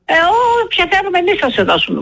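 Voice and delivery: high, mocking imitation of a brush-off; retold operator's high-pitched refusal; mimicked dismissive operator.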